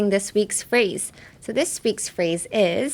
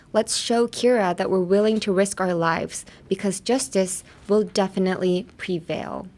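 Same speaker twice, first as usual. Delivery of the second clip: dramatic line read. Shown as a demonstration. Translating a Death Note speech, solemn read. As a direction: read it like a vow. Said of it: "So in English".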